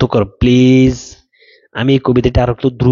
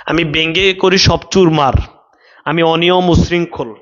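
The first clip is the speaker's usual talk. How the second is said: slow recitation. Shown as a demonstration. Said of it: "আমার দাদা কি বলছেন".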